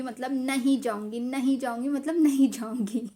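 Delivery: mildly emphatic mock refusal, leaning on नहीं; stubborn refusal. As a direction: re-enact a kid's insistent no. Child refusing school, retold.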